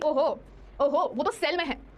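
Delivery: a laughing, slow, hammed-up British "ओहो"; a light mock British accent. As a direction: play the very English gentleman lightly, with a laugh. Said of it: "थोड़ा और अंग्रेजों वाली बातें करूं".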